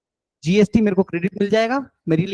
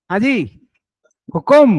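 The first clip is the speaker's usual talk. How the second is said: mock royal reply; 6 dB louder than usual. Playful royal Rajasthani greeting.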